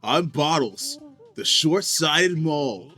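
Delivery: surfer dude voice. Acted. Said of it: "I made Bottles just have, like, a surfer dude voice".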